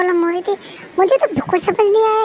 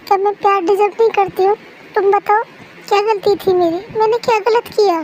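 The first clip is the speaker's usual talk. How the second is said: mildly tearful, anguished questioning; hurt, self-pitying appeal; distraught pleading; 2 semitones higher than usual. Acted. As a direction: plead as if you feel unlovable. Heartbroken girl pleading with friend.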